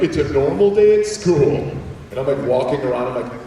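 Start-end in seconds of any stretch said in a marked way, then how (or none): 0.0-1.7 casual, higher It's a normal day; breezy classmates. Retold or imitated. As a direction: toss it off like nothing's odd. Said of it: "They're like".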